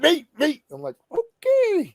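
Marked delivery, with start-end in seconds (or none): 0.0-0.6 high, eager mock plea; eager volunteer. Woman bounding up on stage, mock-eager. 1.1-1.9 very high, drawn-out okay; hammed-up startled agreement; taken aback. Host reacting to the woman rushing on stage, taken aback.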